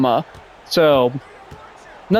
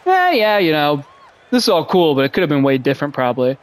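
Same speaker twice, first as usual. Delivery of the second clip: mock agreement. Mocking his younger self.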